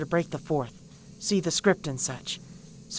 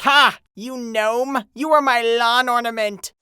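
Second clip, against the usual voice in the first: loud mock-triumphant jeer; gloating retort; 3 semitones higher, 7 dB louder than usual. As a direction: crow it loudly at an imagined foe. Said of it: "then I'd be like".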